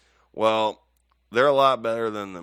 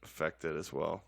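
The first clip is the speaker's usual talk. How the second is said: British accent; 2 semitones lower, 4 dB quieter than usual. Shown as a demonstration. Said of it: "And it says".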